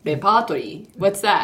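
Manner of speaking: "Repertory?" echoed back in baffled confusion, falling; mild mock confusion at a strange word; puzzled echo. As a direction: repeat the odd word like you've never heard it. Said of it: "and it's like".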